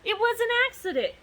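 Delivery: high, fast, loud protest; roared. Acted. Dragon roaring his excuse at the king, fast and loud. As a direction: blurt the excuse in a roar. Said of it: "he roared".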